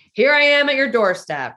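announcer voice. Retold or imitated. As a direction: boom it out like a stadium announcer. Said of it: "talk like it, like, announcing".

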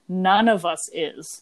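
slow, deliberate proper quote; lightly mock-correct, drawn out; proper grammar. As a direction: measure out each word of "None of us is". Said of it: "perfect, like, proper grammar nod".

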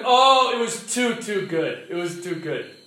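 mildly hammed-up compliment after a sermon; gushing praise. Villagers' after-sermon praise, acted out.

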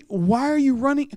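high-pitched baffled question; puzzled Saul. Retold or imitated. Saul watching David run out, baffled. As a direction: play Saul baffled at the boy. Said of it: "Saul standing back there going".

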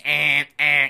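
mock car alarm honk; imitated car alarm. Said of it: "the alarm itself".

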